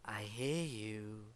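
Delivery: low, slow creepy taunt; scary voice. Acted. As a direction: drag it out, low and menacing. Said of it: "I do the scary voice".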